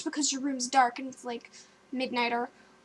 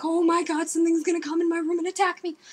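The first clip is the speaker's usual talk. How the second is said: mildly panicked, hurried thought; freaked out; 2 semitones higher, faster than usual. Retold or imitated. Storyteller watching the door intently, freaked out. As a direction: rush it out like a retold fright. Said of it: "I'm freaked out".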